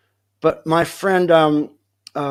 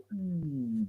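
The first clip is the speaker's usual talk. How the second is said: soft mouth-made sound effect of a fall; quiet wordless toppling noise; imitated falling noise; 15 dB quieter than usual. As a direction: mimic a tall body toppling. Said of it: "guy just go".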